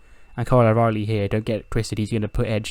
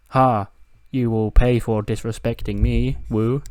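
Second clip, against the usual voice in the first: Charlotte's voice; 4 dB louder, slower than usual. Retold or imitated. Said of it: "she's like".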